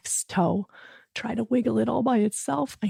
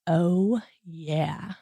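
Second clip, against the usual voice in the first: drawn-out; 4 dB quieter than usual. Shown as a demonstration. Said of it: "can you say out loud".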